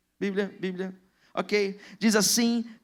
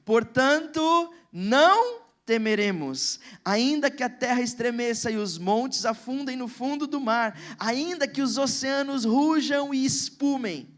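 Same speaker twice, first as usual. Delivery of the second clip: slow, weighty reading of the psalm; solemn scripture reading; slower than usual. Acted. Pastor reading Psalm forty-six to the church, slow and solemn. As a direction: let each line of the psalm land slowly.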